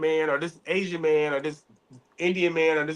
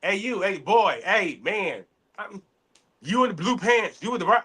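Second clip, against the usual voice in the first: imitating rude summons; 3 semitones higher than usual. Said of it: "don't A U me".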